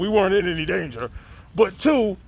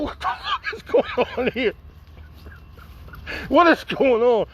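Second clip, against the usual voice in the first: high, strained comic alarm; mock panic; 4 semitones higher than usual. Dad in his daughter's speeding car, mock panic. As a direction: act out a frightened passenger, pitched high.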